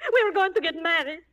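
tearful, sobbing complaint; crying. Acted. Jilted girl sobbing to the marshal. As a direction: cry it out, heartbroken.

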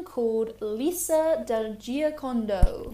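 slow, hammed-up Italian accent. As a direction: say the name like an Italian would. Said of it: "in my best Italian accent".

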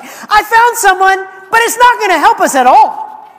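high, laughing, slowed-down hapless disciple; laughing mock disciple. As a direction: laugh through the useless find. Andrew retold with a laugh.

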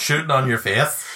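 jokey Welsh impression; mock Welsh. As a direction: say it with a put-on Welsh lilt. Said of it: "Talk to me in Welsh".

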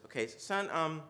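calm a hurt son kindly; gentle father. Retold or imitated. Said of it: "Dad says".

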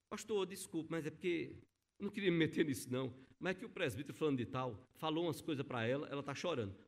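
lightly voiced member, hushed and hurried, saying sorry; quoted apologetic member. Informant's apology quoted in story.

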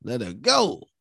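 high, loud hostage-taker's demand; demanding shout. Retold or imitated. Host acting out the hostage taker's demand, shouted. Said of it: "he ran in there and said".

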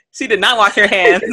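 said through real laughter; laughing. Real, not acted. Host joking about the nurse not scrubbing, laughing. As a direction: laugh while getting the words out.

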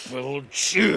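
loud high blow; fierce cry. Acted. Korniukha striking back at Zhmakin, fierce cry. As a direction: hit him with the word.

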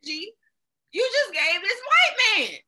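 high laughing shout; indignant shout. Real, not acted. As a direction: yell it back, laughing. Indignant outburst at cashier.

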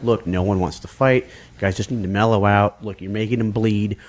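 low, level peacemaker voice; retold calming. Bystander pulling the girlfriend off a fight, calming.

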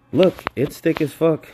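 loud, high, proud show-off; mock staff boast. Drive-thru worker boasting to customer, loud and high. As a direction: shout it like a proud cashier. Staff showing upside-down shake.

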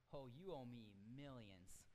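slow insistent demand for repayment; stern king. Acted. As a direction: lean on each word as the king calls in the debt. King confronts debtor.

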